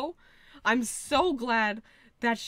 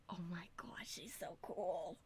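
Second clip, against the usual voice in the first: awed whisper; 3 semitones lower, 17 dB quieter than usual. Real, not acted. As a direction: hush it like a secret crush. Gushing over the character.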